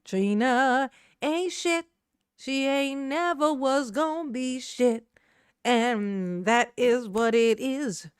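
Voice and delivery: slow, each word laid out like a gift; slow deliberate declaration. Shown as a demonstration. To a viewer afraid to say it, slow deliberate pronouncement. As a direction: spell it out slowly for the viewer. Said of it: "it's my gift to you".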